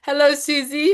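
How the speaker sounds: composed, polite hello; neat, courteous greeting; proper greeting. Shown as a demonstration. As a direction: greet her properly after a giggling fit. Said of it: "That's more a proper way".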